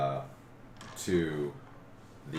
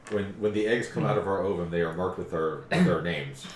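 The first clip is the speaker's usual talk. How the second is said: emphatic dragon voice; 3 semitones higher, 7 dB louder than usual. Acted.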